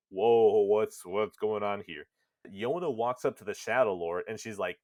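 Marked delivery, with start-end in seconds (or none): 0.1-2.1 mock surprise. Player watching Yona walk past, acting puzzled surprise. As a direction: act out a startled double take. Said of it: "And you're thinking".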